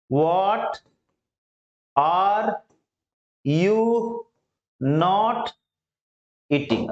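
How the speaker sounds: each word said alone with long pauses. Shown as a demonstration. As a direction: break the question into single words for learners. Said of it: "अब इसी पे practice कर लेंगे". (हर शब्द अलग-अलग रुककर)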